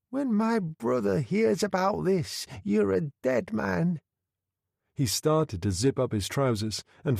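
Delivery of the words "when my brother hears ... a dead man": Billy spitting a threat, pitched high; threatening young thug. A narrator's reading.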